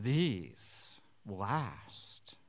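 whispered contempt; scornful whisper; sneering whisper. Acted. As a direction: hiss it with scorn. Grumbling workers quoted.

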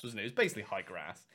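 normal talking voice

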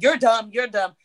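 lightly imitated blunt put-down, repeated; Kevin Samuels. Guest shows host how she said it, mildly blunt coach imitation. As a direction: pronounce it like a dismissive coach's verdict. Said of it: "the way you said it, like".

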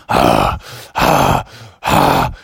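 heavy panting. Retold or imitated. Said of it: "I was like".

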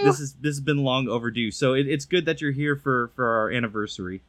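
speaking through a bear mask; muffled through mask. Real, not acted. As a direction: talk muffled behind a costume mask. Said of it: "if I sound a bit muffled, I'm speaking through a bear mask right now".

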